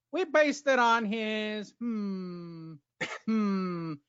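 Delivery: high, hammed-up old-time announcer; mock old-school boxing-man voice; old-time fighting voice. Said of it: "I'm using the old-time fighting voice".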